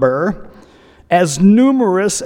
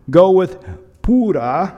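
a quick put-on Portuguese lilt on go with Purah; joking Portuguese accent; 2 semitones higher than usual. Preacher reading scripture aloud, jokingly in a Portuguese accent. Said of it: "that's my Por-, Portuguese accent".

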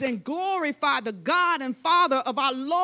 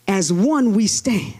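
declaring; 6 semitones lower, 6 dB louder than usual. Shown as a demonstration. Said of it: "One voice".

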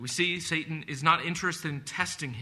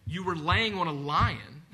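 incredulous; 4 semitones higher, 5 dB louder, slower than usual. Retold or imitated. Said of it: "we all look at her and are like".

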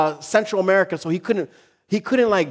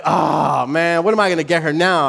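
mock dismay; 4 dB louder than usual. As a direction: play a brother who feels outdone. Second son at a loss.

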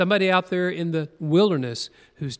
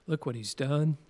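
exasperated eye-roll; 5 dB quieter, slower than usual. Acted. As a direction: mutter it like a weary, mildly fed-up onlooker. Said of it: "rolling their eyes, going".

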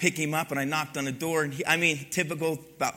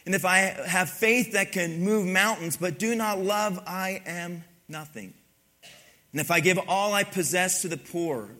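scripture reading. Acted. Pastor reading First Corinthians to the church, solemn. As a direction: read the verses with weight.

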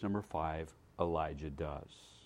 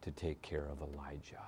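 hushed whisper for emphasis; 7 semitones lower, 13 dB quieter than usual. Real, not acted. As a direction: lean in and whisper it. Preacher drops to dramatic whisper.

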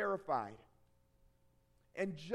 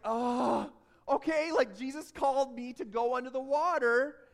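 amazed acceptance; 2 semitones higher, 4 dB louder than usual. Acted. Peter's nervous reply acted out.

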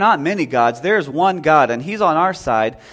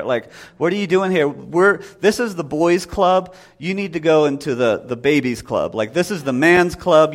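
mocking big brother. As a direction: sneer at the little brother like he's a baby. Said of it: "he begins to belittle and mock David".

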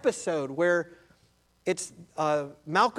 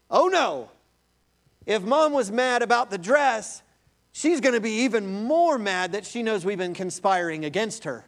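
mock panic, voice raised a little; freaking out. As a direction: act out a kid mildly panicking. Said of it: "he starts freaking out".

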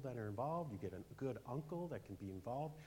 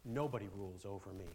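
defiant man; 4 semitones lower than usual. Retold or imitated. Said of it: "I've said this to many men".

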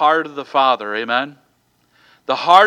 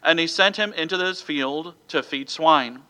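measured, steady Bible reading to a congregation; solemn King James reading; scripture reading. Acted. Reads the parable aloud.

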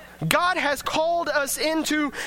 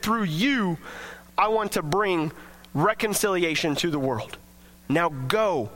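lower, solemn voice of God giving a command; 5 semitones lower than usual. Acted. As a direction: speak as God sending out his people, low and grave. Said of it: "and he said".

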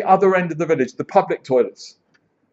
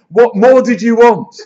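exasperated God; 6 semitones higher, 7 dB louder than usual. Acted. God answering the drowned man.

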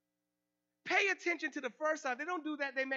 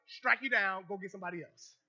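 louder, exasperated outburst; mock exasperated God, loud; fed-up God; 3 semitones lower, 6 dB louder than usual. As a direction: play God losing patience. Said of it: "if I was God, this is where I would be like".

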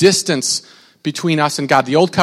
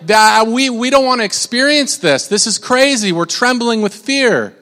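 frightened cry; 4 semitones higher than usual. Retold or imitated. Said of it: "they were terrified".

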